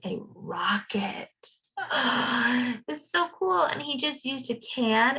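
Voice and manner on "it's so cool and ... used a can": gasp, then jump higher; excited gasp. Real, not acted. Teacher showing children a rocket craft, gasping in delight. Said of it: "teacher shows excitement to kids".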